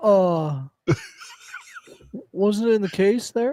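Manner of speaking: animated, high, loud, swooping shopkeeper voice. Retelling buying an item missing its belt, the speaker imitates the storekeeper: storekeeper impression. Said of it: "that's my impression of the storekeeper".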